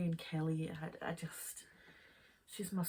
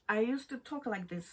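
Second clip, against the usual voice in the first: Zimbabwean accent; 4 semitones higher than usual. Shown as a demonstration. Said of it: "is like a Zimbabwean accent".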